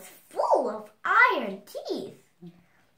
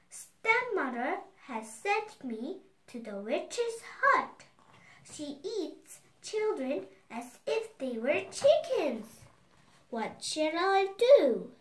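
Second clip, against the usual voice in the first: put-on frightened girl; 3 semitones higher than usual. Girl fearful about the witch.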